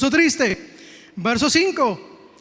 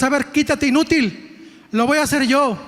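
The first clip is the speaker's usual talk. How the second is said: impatient; 2 semitones higher than usual. Acted. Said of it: "Es lo que está diciendo".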